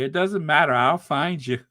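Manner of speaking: lightly menacing debt collector; a hint of loan shark threat; smiling menacing loan shark. Shown as a demonstration. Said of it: "you sound like a loan shark".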